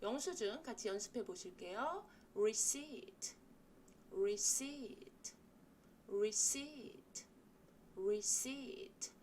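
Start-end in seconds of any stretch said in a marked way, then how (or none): 2.3-9.1 receipt said slowly, re and ceipt with the i sound; receipt pronunciation drill. Shown as a demonstration. English teacher drilling "receipt" for Korean learners. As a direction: model "receipt" with the long ee vowel, lips spread. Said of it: "re 할 때 이와 seat 할 때 이가 입모양이".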